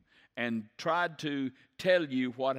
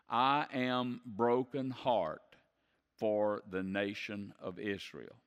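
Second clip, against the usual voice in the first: heavy sorrow; slower than usual. Retold or imitated.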